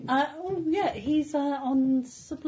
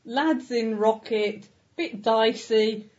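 telegram style. Pretend. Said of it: "it's typed in that style".

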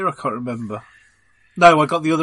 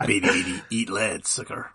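Tweaky; 7 semitones lower, 7 dB quieter than usual. Retold or imitated. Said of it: "you've turned into Tweaky from Buck Rogers".

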